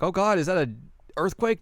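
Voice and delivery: hammed-up alarm at the shaking; mock panic. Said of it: "and then they're like".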